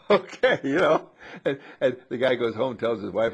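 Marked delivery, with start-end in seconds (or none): 0.1-1.1 bemused okay. Retold or imitated. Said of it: "And the guy said".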